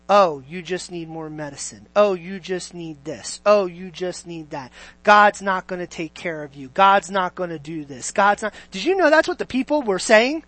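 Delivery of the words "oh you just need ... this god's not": low, soft naysayer; lightly voiced doubter's refrain; imitated doubters. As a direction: mimic a discouraging voice, kept low. Voices the doubters surrounding you.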